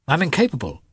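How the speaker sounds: high-pitched confession of failure; guilty admission. A narrator's reading. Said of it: "said Lievin guiltily".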